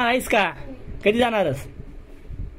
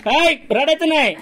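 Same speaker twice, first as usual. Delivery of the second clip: laughing scold; 5 semitones higher, slower than usual. Real, not acted. Parent tells crying child to stop.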